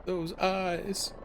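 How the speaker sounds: put-on high breathless old aunt; Aunt May impression. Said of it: "my Aunt May impression".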